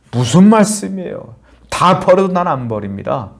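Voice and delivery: Peter protesting, pitch jumping up high then settling; agitated Peter. Retold or imitated. Peter protests to Jesus that he would never leave, agitated. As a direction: Peter bristling at Jesus, hurt and defiant. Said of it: "막 격앙되는 거야".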